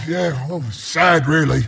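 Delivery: low, subdued sorrow; mock mourning. Announcer mourns tower that just died, mock sad. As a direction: let it sink into mock sadness.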